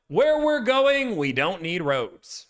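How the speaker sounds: a slow, understated movie line; hint at the film line without going all in; half impression. Streamer teasing the quote, light half impression. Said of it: "I'm not gonna do the full impression".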